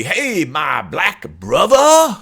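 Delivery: loud, slow, put-on stereotypical Black accent; mock stereotypical Black accent. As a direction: white friend teasing in a fake Black accent. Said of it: "this hideously, uh, stereotypical black accent".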